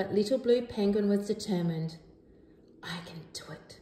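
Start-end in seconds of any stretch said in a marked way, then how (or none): 2.8-3.8 very hushed, soft whisper, spoken to herself. Narrator reads Little Blue Penguin swimming against the other penguins: whispered to herself. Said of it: "she whispered to herself".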